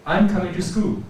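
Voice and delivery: statement with the pitch moved by rising; change pitch through "I'm coming to school"; changed pitch. Shown as a demonstration. Teacher rising from her chair, changed pitch. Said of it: "a change in my voice".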